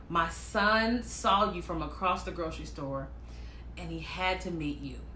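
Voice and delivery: soft, low, confidential; imitated confiding lady. Lady confides her request, hushed.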